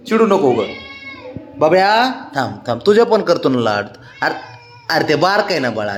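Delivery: gentle, settling voice for an eager dog; soothing pet. Real, not acted. Calming excited pet down.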